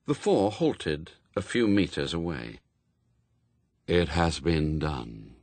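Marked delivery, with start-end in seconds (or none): 3.9-5.4 low, slow, hollow voice of Death; deep and final, like the grave speaking; grim reaper voice. A narrator's reading. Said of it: "said Death".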